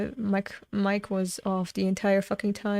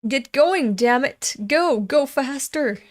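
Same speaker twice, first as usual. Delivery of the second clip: louder, higher shouts to go faster; urging the horse; 4 semitones higher, 4 dB louder than usual. Acted. Rider yelling at his horse to go faster, loud. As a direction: drive the horse on hard.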